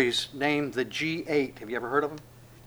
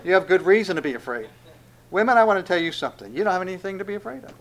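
angel reassuring women; 3 semitones higher, 6 dB louder, faster than usual. Pretend. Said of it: "the angel goes".

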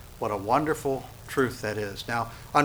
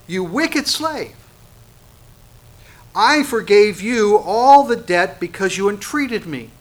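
much higher, slow, loud scolding lord; stern rebuke; 6 semitones higher, 6 dB louder, slower than usual. Acted. The lord condemns his wicked slave, slow loud rebuke. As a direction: denounce him, slow and hard.

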